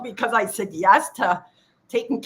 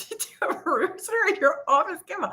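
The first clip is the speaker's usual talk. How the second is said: curious colleague; 9 semitones higher than usual. Retold or imitated. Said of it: "He's like".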